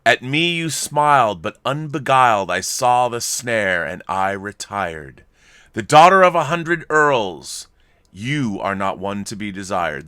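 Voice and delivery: slow, measured poetry reading; reading Tennyson aloud slowly and formally; poem recitation. Shown as a demonstration. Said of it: "It begins".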